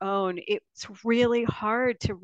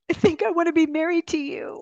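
quoted self; 10 semitones higher, 3 dB louder than usual. Retold or imitated. Quoting herself proposing.

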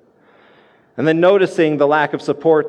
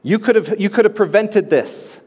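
calling Jesus out; 4 semitones higher than usual. Retold or imitated. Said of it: "she calls Jesus out".

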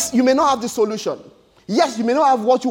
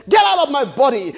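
commanding shout; 3 semitones higher than usual. Pretend. Preacher shouting a command at sickness.

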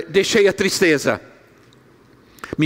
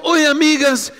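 put-on child's voice; 6 semitones higher than usual. Granddaughter greeting, retold.

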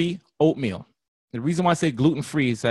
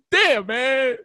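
laughing quote; 10 semitones higher, 4 dB louder than usual. Acted.

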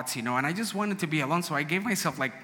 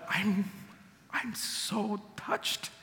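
choked up; 6 semitones higher, 5 dB quieter, much slower than usual. Retold or imitated. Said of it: "And I really was".

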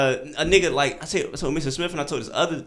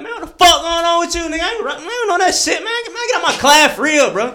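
mock tough guy voice, higher and louder; tough hot voice; 5 dB louder than usual. Telling the staring teacher off in a mock tough voice. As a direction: play the hard guy, ham it up a little. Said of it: "So I put on my hot nigga voice".

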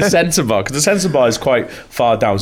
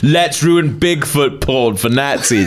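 narrator voice; slower than usual. Acted. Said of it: "You do the narrator thing then".

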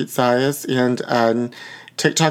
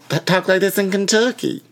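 higher, tentative Kentucky twang; put-on Southern accent; 5 semitones higher than usual. Guessing how they talk in Kentucky, mock Southern accent. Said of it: "This sounds more like Louisiana".

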